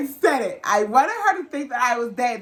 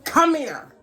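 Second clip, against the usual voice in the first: slow, louder, drawn-out "come here"; mock angry yank; 5 semitones higher, 4 dB louder, much slower than usual. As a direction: drag the words out as if pulling her by the dreads.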